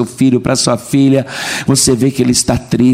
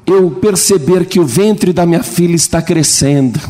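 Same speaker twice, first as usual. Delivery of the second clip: a father pleading to the pastor, lifted higher; higher voiced parent; 5 semitones higher than usual. Father confessing to the pastor, lightly raised and earnest. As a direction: speak as a worried father confiding in the pastor.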